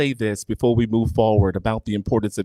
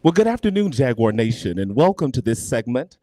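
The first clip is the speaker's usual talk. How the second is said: projecting a bit more on the greeting; a little louder. Shown as a demonstration. Host redoes her on-air greeting, a bit louder. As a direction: lift the volume slightly to reach the room. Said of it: "A little bit louder?".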